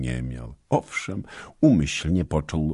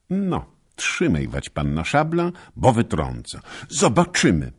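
cocky challenge; 7 semitones higher, 6 dB louder than usual. Acted. Michał challenging Basia in the duel.

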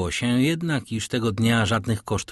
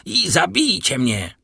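high, loud desperate cry; shout; 7 semitones higher, 4 dB louder than usual. A narrator's reading. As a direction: beg them to kill him, loudly. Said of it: "krzyknął Danglars".

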